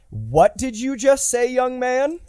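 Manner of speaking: high, scolding parental voice; Robert Downey Junior. Acted. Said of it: "Robert Downey Junior's voice go off in his suit".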